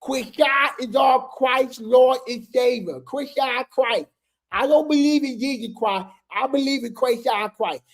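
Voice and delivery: slow, solemn put-on fan voice; Rock Tar voice. Shown as a demonstration. Reading the fan flyer to viewers, in a slow mocking Rock Tar voice. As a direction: intone it like a mock sermon. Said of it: "I gotta do this in my Rock Tar voice".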